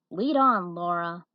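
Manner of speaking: firm encouragement. Acted. Mother lets daughter lead.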